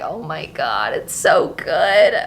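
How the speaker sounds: hushed, slow oh my God; awed reading reaction. Retold or imitated. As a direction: re-enact being moved by a book. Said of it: "I was like".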